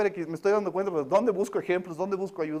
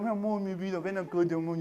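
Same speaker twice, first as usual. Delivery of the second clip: tender parent; 5 dB quieter than usual. Retold or imitated. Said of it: "soy súper tierno".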